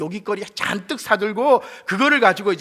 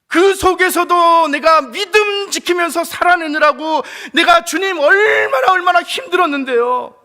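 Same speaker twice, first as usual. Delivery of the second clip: loud, high, building to a shout; anguished plea; 11 semitones higher, 10 dB louder than usual. Pretend. Believer cries out to God about their hardships. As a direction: pour out a lifetime of pain.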